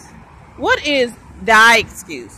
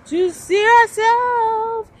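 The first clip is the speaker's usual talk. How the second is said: emotional outburst; 8 semitones higher, slower than usual. Real, not acted. Emotional peak, cry heard.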